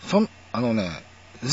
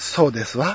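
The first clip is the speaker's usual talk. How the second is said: plain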